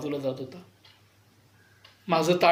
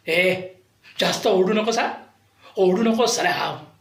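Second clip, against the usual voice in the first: madam warning him not to shout back; mock warning. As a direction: warn him off sharply. Madam warns him, retold.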